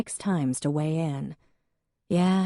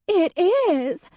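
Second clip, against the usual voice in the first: high, louder, tearful wail; weeping Hadley; 6 dB louder than usual. Acted. Hadley to Jack about her dead cat, weeping high. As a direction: wail it like the world has ended.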